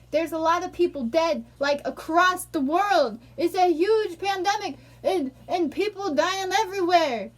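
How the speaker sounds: heated rebuttal. Real, not acted. Heated rebuttal about the pandemic.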